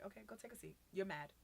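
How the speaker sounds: soft, even direction; calm instruction. Retold or imitated. Youth worker sending an upset kid to cool down, calmly. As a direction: send them off without any heat.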